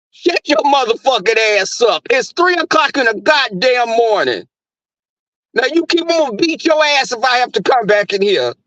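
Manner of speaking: black voice again. Retold or imitated. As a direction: chew the dog out at 3 a.m. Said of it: "black voice comes out".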